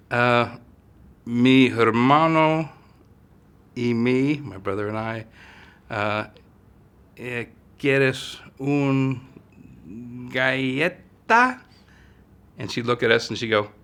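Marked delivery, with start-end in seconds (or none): 0.1-11.6 put-on higher, slow, halting child's Spanish; hesitant kid Spanish. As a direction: stumble through the request like a nervous kid. Child attempting broken Spanish.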